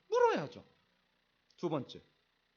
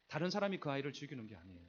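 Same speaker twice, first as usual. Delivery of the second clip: ordinary talk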